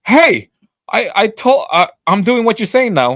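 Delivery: angry customer. Retold or imitated. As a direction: imitate an irate customer coming back to complain. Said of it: "she comes back all angry".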